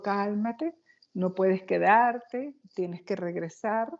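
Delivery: calm her down like a kind guide; calm reassuring Jesus. Retold or imitated. Jesus telling the dead woman to calm down, slow and soothing.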